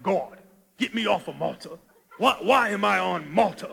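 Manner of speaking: lightly put-on deep voice; Paul. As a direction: play at a deep, weighty biblical voice. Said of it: "he probably had to be deep voice".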